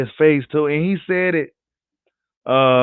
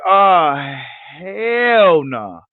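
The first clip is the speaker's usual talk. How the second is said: a louder, quicker "Oh, hell no" blurted out; louder exclaim; much slower than usual. Retold or imitated. Critics reacting to Bud beating Horn, louder outraged exclaim. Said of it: "They was like".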